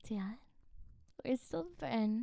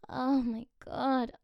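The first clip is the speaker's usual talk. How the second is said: louder, slow, awed; amazed; 2 semitones higher, 6 dB louder, slower than usual. Acted. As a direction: marvel at it, slow. Amazed reaction.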